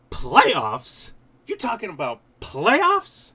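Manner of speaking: loud, incredulous "Playoffs?" rant; mock press-conference outburst; Jim Mora impression. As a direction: do the famous coach's disbelieving playoffs rant. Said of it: "How was that?".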